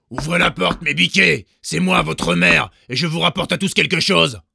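loud, high fake mother call; the wolf badly faking the mother goat; wolf posing as mother. A narrator's reading. Wolf shouting at the door, pretending to be the mother. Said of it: "à sa grosse voix rauque".

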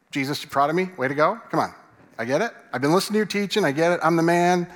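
lightly hammed-up cocky disciple; Peter. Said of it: "Back to the voice again".

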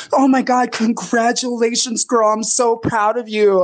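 put-on high, gushing "oh my God, girl"; gushing fan. Facebook fans congratulating Shea, high and gushing. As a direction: lay the fake praise on thick.

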